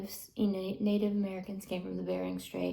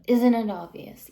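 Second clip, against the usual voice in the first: louder exasperation; 7 dB louder than usual. Retold or imitated. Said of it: "You know".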